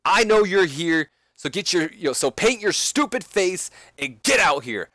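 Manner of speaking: loud, high, angry call-out; angry Seth Rollins. Acted. Wrestler calling out Sting to the ring, angry and loud. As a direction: yell for Sting to show himself. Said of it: "calls out Sting".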